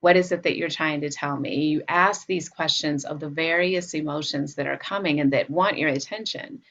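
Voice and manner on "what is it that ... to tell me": calm, caring question; still, attentive. Acted. Caretaker to an emotion wanting attention, still and attentive. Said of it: "you just get really still".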